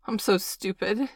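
crying. Acted. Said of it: "he cried".

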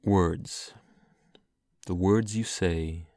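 put-on slow, measured poem reading in own accent; unhurried verse recital; poetry reading. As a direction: give each line room, fading at the end. Take a break from accents.

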